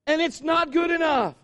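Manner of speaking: high, loud outraged rant; mock outrage at ungrateful kids; indignant comic yelling; exasperated dad. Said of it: "he's just like".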